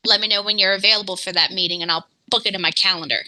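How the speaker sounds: rushed jittery rapid talk; fast and jittery. Real, not acted. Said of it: "I'm very jittery today".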